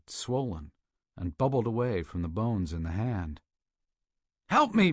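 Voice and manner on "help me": high, loud desperate scream; screaming for help. A narrator's reading. Burgess begging his partner for help, agonized scream. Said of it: "Burgess screamed".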